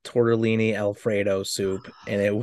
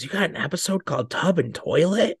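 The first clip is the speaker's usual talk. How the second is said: a higher, put-on voice for mom, quoting "Tub and Toilet"; imitating mom; 7 semitones higher than usual. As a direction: playfully mimic a mother's surprised question. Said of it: "She goes".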